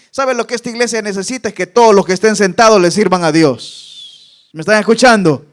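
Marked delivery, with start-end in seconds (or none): 1.5-5.4 louder preaching push; loud call to listen; loud exhortation. Acted. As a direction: drive it home to the congregation.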